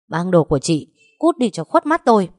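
a furious wife ordering the mistress out; ordering her out. Acted. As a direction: throw her out with contempt. Wife throws rival out.

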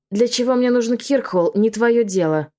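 understated snarling witch; growled. Acted. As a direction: bite back at her with a light growl. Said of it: "прорычала Клаудия".

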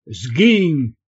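far-off timbre, sharp swooping bark; barked order. A narrator's reading. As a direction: bark it like a furious healer. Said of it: "рявкнула лекарка".

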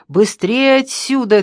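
high, loud, drawn-out urging; insistent urging. A narrator's reading. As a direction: hurry them away insistently. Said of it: "твердил Ящиков".

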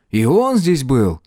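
weakly voiced question, slowly drawn; slow, stricken question; weakly asked. A narrator's reading. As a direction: ask it faintly, as if stung. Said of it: "слабо спросил Тепик".

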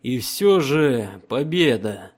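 slow, loud, commanding Emperor. Acted. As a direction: speak as an unshakable emperor. Emperor voiced in audiobook.

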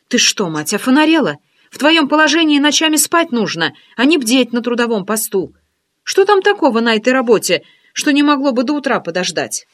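teasing curiosity, lifted voice; friend's voice. Acted.

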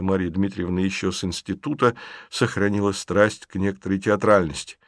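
ordinary delivery

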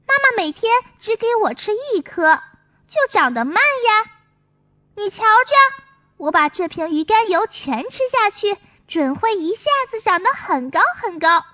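a hint of a confident small boy; lightly voiced child. Songsong convinces Maomao, lightly voiced child. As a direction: explain your big plan proudly. Songsong explains his plan.

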